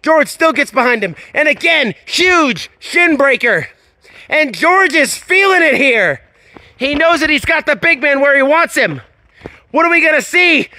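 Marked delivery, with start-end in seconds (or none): 1.3-10.7 rising excitement. Real, not acted. Commentator builds toward finish.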